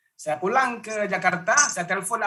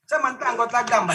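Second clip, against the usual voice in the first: retold angry threat; 4 semitones higher than usual. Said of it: "saya dengan emosi gitu".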